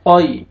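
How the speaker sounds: तौई with a full, heavy ता sound. Shown as a demonstration. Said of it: "तौ को आपने मोटा करके पढ़ना है". (तौई का तौ मोटा करके)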